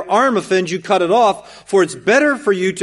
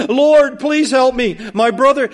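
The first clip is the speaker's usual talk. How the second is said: a high, whiny "Lord, please help me"; the brother begs Jesus, in a higher whiny voice; pleading man; 5 semitones higher, slower than usual. Retold or imitated. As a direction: play the petty brother begging for help. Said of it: "mimics the man again".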